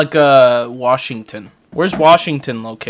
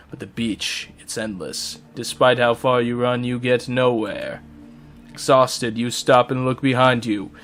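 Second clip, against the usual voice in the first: story narration. Acted. Reads the game's narration aloud.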